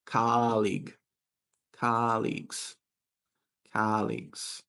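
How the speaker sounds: "colleague" with a long, stressed COL; stress on first syllable. Shown as a demonstration. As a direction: model "colleagues" as KAH-leegz. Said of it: "But the stress is different".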